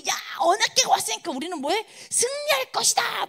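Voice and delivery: high mock rallying cry; imitated shouting soldiers. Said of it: "얼마나 소리를 질렀던지". (승리를 외치는 군인들 흉내)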